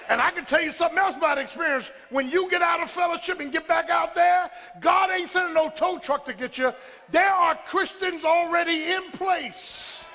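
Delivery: insistent pulpit cadence; fervent preaching. Real, not acted. Preacher telling congregation about returning to fellowship, fervent preaching. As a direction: press the point home to the congregation.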